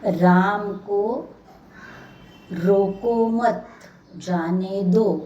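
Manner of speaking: "राम को", long pause, "रोको मत", pause, "जाने दो"; very slow, spaced-out "राम को ... रोको मत, जाने दो"; careful demo reading. Shown as a demonstration. Teacher asking pupils to listen closely, slow spaced reading. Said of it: "वाक्य ध्यान से पढ़ रही हूँ मैं".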